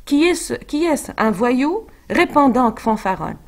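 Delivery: lightly voiced scolding nurse; accusing nurse. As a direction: press her for an answer, mildly indignant. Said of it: "Elle l'accuse d'être hypocrite".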